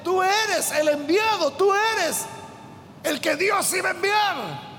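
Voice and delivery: slow, high, amazed cry of recognition; amazed exclamation. Retold or imitated. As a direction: awestruck preacher voicing Nathanael. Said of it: "él queda sorprendido y le dice".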